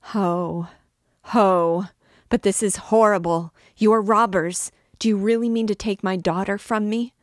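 high, loud, piercing outcry; a mother's rising, frantic shriek; piercing cry. A narrator's reading. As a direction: let it pierce the ear like a saw. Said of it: "her voice now pierced the ear like a saw".

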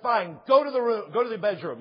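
mildly exasperated dad, retold; irritated father. Father sending his crying daughter to her room, mildly irritated. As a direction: imitate a dad losing patience. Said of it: "he got irritated with her".

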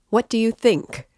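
loud, high shout; a big high shout. A narrator's reading. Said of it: "shouted Razumihin, louder than ever".

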